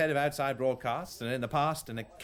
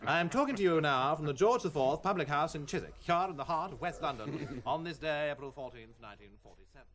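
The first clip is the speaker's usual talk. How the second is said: formal BBC broadcaster read; mock BBC news broadcast; newsreader; 3 semitones higher than usual. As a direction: announce it like the wireless news. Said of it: "give me a subject to speak about".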